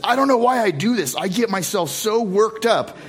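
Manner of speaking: mock the wife's worked-up complaint; imitating worked-up wife. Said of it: "Mari got me worked up".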